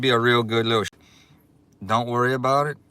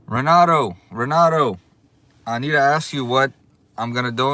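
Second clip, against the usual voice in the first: calling out; 3 semitones higher, 6 dB louder than usual. Real, not acted. Calling out to donor.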